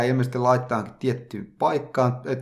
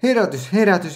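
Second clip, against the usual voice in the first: mock wake-up call; 5 semitones higher than usual. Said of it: "Ja sit se huutelee".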